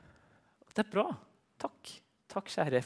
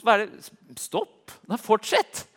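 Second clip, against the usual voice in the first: excited outburst; 9 semitones higher, 7 dB louder, slower than usual. Retold or imitated. Woman retold: stop, no, continue.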